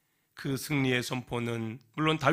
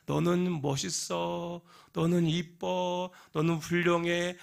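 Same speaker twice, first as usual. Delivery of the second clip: gentle encouragement; 5 semitones higher, slower than usual. Acted. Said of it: "지혜로운 엄마".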